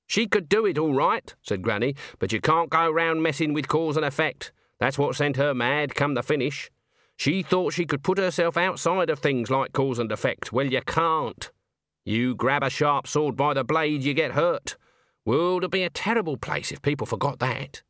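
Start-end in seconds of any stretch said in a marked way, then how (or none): 0.1-1.3 high-pitched stern witch voice; Granny, stern. Acted. Granny answering Nanny about Black Alice, stern. 2.2-17.8 lightly voiced stern witch, slightly raised pitch; a touch of firm lecturing; Granny, stern. Granny warns Nanny about cause and effect, mildly stern.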